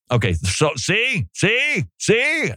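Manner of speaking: rising squeal of see; mock triumphant. Mocking the clever arguer, voice climbing high.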